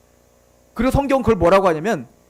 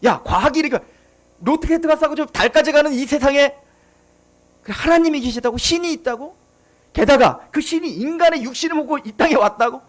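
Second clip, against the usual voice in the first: mocking ridicule. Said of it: "이게 세상의 요구죠".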